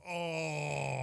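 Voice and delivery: long drawn-out mock groan; agonised groan. Husband as wife teases on the drive, mock agonised groan. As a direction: groan as if suffering through it.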